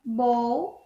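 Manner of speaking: "bow" with a long O. Shown as a demonstration. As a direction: draw out the vowel of "bow". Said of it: "this is for long O".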